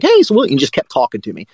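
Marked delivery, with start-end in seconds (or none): 0.0-0.4 confiding aside. Retold or imitated. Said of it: "he was like".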